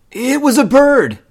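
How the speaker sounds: high, loud little bear cub; eager cub. A narrator's reading. Brother Bear starts the whopper for Mama, eager. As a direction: pipe up like a fibbing child.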